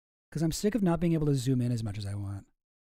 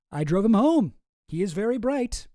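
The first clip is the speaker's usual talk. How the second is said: higher, louder put-on character voice; Jeffrey Epstein; 5 semitones higher, 4 dB louder than usual. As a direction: voice the other correspondent, pitched up. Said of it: "says Epstein".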